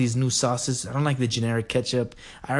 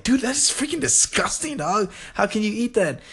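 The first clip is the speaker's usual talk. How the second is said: high, far-off buddy voice; imitating a friend, way up high; 9 semitones higher than usual. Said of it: "The person that showed it to me".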